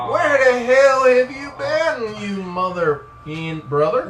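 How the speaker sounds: loud, high, drawn-out holler; hammed-up country outburst at a long-lost buddy; rowdy greeting. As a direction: holler it slowly like a rowdy hick. Mock rowdy greeting in character.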